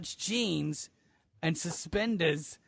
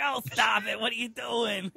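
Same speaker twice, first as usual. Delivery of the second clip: higher-pitched jokey objection; mock protest; 5 semitones higher than usual. Driver objecting to a cop's pun, mock protest.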